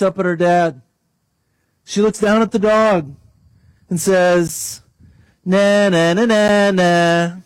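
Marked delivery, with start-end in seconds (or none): 5.4-7.4 lightly voiced little girl taunting; childish taunt. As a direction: tease the dog from safety. Girl taunting dog from arms.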